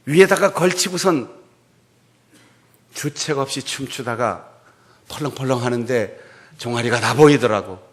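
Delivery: wife berating David, loud rebuke; scolding wife. Retold or imitated. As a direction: scold the husband for shaming himself. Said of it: "이렇게 비난하는데".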